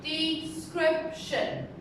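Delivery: description slow, SCRIP stressed; de-SCRIP-tion, slowly; stress on second syllable. Shown as a demonstration. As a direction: model description again, SCRIP strong. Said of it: "third, second syllable".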